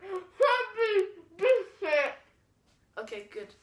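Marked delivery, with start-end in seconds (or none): 0.0-2.0 mouth full. Real, not acted. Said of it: "Say it properly".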